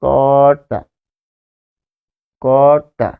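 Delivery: কর্তা said slowly, syllable by syllable; teacher slowly sounding out কর্তা. Shown as a demonstration. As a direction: stretch out কর্তা, drawing out each syllable. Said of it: "একদম slow".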